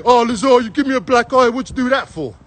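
lightly voiced complaining man on the phone; a hint of the driver's grievance, then trailing off; mock injured driver. The beaten driver ringing Lazar to complain, lightly mimicked.

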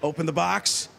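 lightly voiced Tony Romo, low and eager; a hint of excited Romo calling a play; Tony Romo impression, a touch low. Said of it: "the Tony Romo I've been working on".

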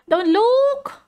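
scared. Real, not acted. Scared reaction to horror video.

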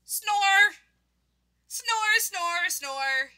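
loud first snore, then falling in steps; storybook snore, descending; performed snoring. Acted. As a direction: start high and slide down through each "snore". Sleeping character snores, as word.

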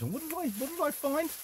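high, sing-song teasing voice; mock-mysterious high voice; playful teasing question. Real, not acted. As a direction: tease the viewer with the big reveal. Teasing reveal of shopping haul.

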